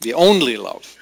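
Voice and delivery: "only" leaned on with a falling tune; stress on only. Shown as a demonstration. Preacher dwelling on the phrase for the congregation, stressing "only". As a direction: press down on "only". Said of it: "We could emphasize that".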